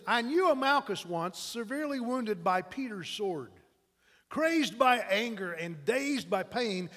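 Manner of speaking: slow, measured dramatic verse; poem recital. Acted. Preacher reciting a poem about wounded Malchus, dramatic recital. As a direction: recite it in drawn-out phrases, easing off at the end.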